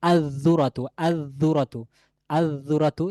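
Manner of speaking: "আজ-জুরাতু" with doubled dh, no l; lam merged into dhal. Shown as a demonstration. Teacher repeating for students, "আজ-জুরাতু" with lam silent. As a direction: dwell on the জ of "আজ-জুরাতু". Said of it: "লামের উচ্চারণ আসবে না".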